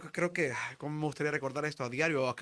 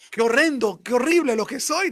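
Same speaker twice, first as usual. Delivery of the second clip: much higher and louder, a hammed-up wail of self-disgust; mock anguished cry; 7 semitones higher, 11 dB louder than usual. Frightened friend despairs over his own thought, anguished. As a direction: cry out in despair at yourself, half-acted. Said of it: "decía".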